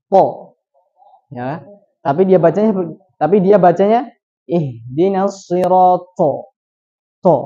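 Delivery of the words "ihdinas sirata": "sirata" dengan ta tipis, lambat; to dibaca ta. Shown as a demonstration. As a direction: contoh salah: to diganti ta. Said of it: "Seperti huruf ta". (bacaan salah huruf ta)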